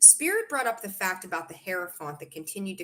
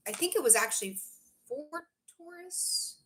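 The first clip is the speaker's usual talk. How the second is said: ordinary delivery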